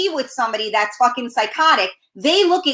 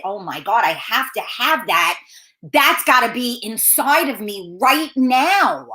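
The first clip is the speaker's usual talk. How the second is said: mock swooning; 3 semitones lower than usual. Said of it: "Is this supposed to say".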